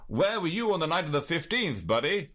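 a hint of an old-time copper; old-time copper grilling a suspect; 1930s beat cop. Shown as a demonstration. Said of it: "Nineteen thirties copper voice".

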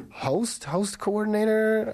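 strained voice cracking up high. Real, not acted. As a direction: push a worn voice until it cracks. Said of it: "I really should not have attempted that".

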